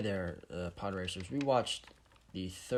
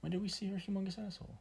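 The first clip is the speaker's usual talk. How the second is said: mock outrage; 11 semitones higher, faster than usual. Real, not acted.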